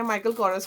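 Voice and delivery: माइकल कोरस with two syllables in कोरस; own pronunciation. Shown as a demonstration. Vlogger introducing how the brand is said, own pronunciation. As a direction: say माइकल कोरस as MY-kul KOR-us. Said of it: "इसको जब हम, हम pro-, pronounce करते हैं".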